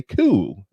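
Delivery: "cool" with a fronted British vowel, "kyool"; drawn "cool" in imitated British pronunciation. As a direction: mimic her way of saying "cool". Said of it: "you do say it like that".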